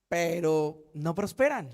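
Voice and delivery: pero no prosperan said low and slow; low slow refrain. Acted. Preacher to congregation: low slow refrain.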